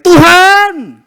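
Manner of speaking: sudden high, loud cry of Tuhan; a panicked call for help; frightened cry to God. Pretend. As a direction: shout out to God in fear. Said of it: "kemudian teriak".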